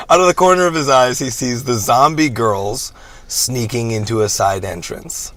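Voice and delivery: movie trailer voice. Acted. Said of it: "my movie voice".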